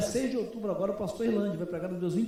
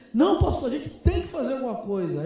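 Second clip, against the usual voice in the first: louder, higher insisting cry; loud insistence; 5 semitones higher, 8 dB louder than usual. Retold or imitated. Furious member insisting the pastor act, loud and high. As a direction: push back hard at the pastor.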